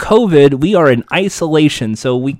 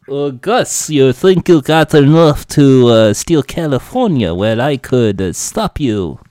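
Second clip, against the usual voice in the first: halting mock Russian villain, sagging lower; attempted Russian accent; 3 semitones lower than usual. Villain threatening Gus with trivia, attempted Russian accent. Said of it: "you do a Russian accent".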